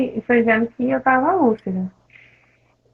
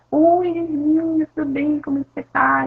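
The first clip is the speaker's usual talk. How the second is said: sweet nurse greeting; 6 semitones higher than usual. Retold or imitated. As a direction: chirp the greeting like a friendly nurse. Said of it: "algumas enfermeiras iam".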